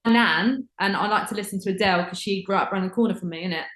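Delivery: mock Essex accent, slowed on my nan; playful Essex voice bragging about a singer. Shown as a demonstration. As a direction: lay on a broad Essex accent. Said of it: "talk about everything like that".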